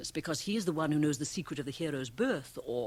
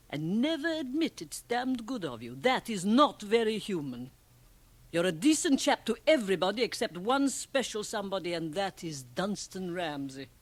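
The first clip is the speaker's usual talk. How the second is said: raised, scolding voice; heated reproach; 5 semitones higher, 5 dB louder than usual. Acted. Liesl confronts Ramsay about his self-neglect, heated. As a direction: press the point hard.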